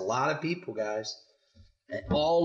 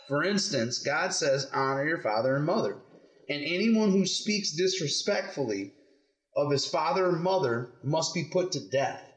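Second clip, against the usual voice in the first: measured scripture read-aloud; story reading to children. Acted. Parent reading the Pharisees' question to kids, measured storytelling. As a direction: read it out clearly, phrase by phrase.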